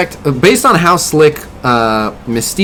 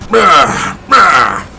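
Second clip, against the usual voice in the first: grunting bah; 3 semitones higher, 4 dB louder, much slower than usual. Retold or imitated. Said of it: "he literally just goes up and is like".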